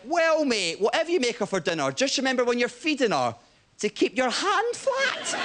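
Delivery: mock-sincere drunk tip to a friend; drunken advice. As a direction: deliver the punchline like a tipsy mate. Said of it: "Drunkenly, I went".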